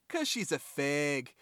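put-on drawn-out kid's line in a botched Boston accent. Podcaster retelling a Cops episode's little kid, botched Boston accent. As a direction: attempt a Boston kid, landing nearer Minnesota. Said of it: "you sound like you're from Minnesota and not Boston".

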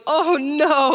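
high, loud retold dismay; couple's dismayed cry as the puppy flees. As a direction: cry it out as the dog bolts. Watching the puppy run off.

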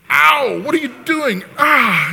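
high, loud, hammed-up yelps; mock magic healer. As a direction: send up a showy faith-healing trick. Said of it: "He's not, like, doing a magic trick".

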